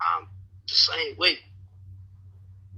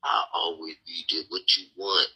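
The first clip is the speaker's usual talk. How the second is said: mock sweet pushover; 8 semitones lower, slower than usual. Mocking the nice guy women expect, in a lower, sugary voice. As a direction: lay it on like a doormat boyfriend. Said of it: "supposed to be this".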